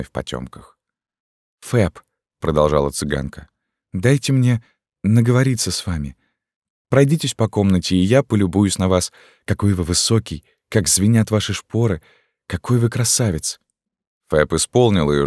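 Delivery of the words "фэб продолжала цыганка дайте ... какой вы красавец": higher, lightly voiced young girl, full of admiration; a girl gazing up at her rescuer; adoring young gypsy girl. Esmeralda speaks again.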